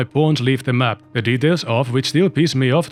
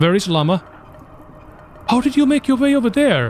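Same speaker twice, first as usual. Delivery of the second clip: squeaky, very high, fake put-on blubbering crying; 9 semitones higher than usual. Game streamer looks for a pawn who wandered off, crying.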